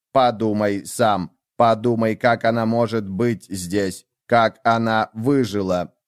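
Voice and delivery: slow, measured insistence of a gadget; lightly voiced device urging him to think; insistent gadget. Gadget pleads with Lev to think, insistent.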